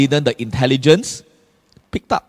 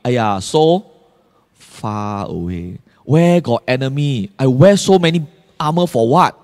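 careless grumble; 4 semitones lower than usual. Retold or imitated. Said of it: "what is your thinking? Like".

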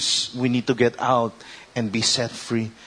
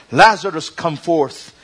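loud call; 2 semitones higher, 4 dB louder than usual. Acted. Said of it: "he cried with a loud voice".

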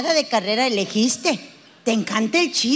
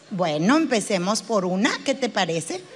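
composed low-pitched counsellor; psychologist; 6 semitones lower than usual. Acted. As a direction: coax the patient in a lower register. Acting the psychologist to a patient.

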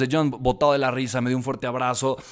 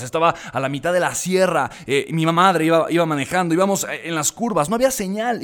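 normal talking voice

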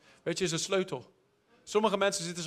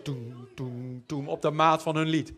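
imitated foot beat; 5 semitones lower, slower than usual. Imitates God tapping his foot.

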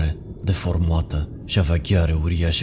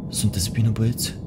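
gentle whisper; 5 semitones higher than usual. A narrator's reading. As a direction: whisper it tenderly to scared kids. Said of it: "spuse el blând". (șoptit blând, grijuliu)

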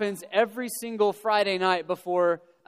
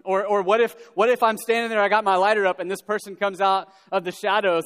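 anxious building; 5 dB louder than usual. Retold or imitated.

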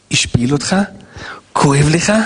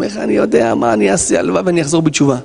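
helpless sinner; 4 semitones higher than usual. Acted. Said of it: "זה נקרא עוון".

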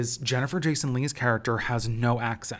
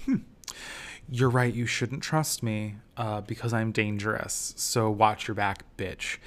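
put-on menacing, accent dropped. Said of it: "all of a sudden drops it and is like".

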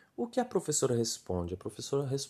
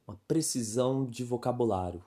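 whisper. Acted. Stressing a key term.

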